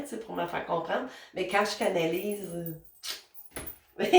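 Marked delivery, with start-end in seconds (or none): 4.0-4.0 sudden laugh. Real, not acted. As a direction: break into a laugh mid-sentence. Laughs mid-sentence while channeling.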